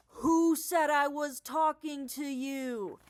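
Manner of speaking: loud, slow, indignant comeback; indignant retort. Acted. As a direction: bark it back at the reader, offended. Snapping back at confused readers.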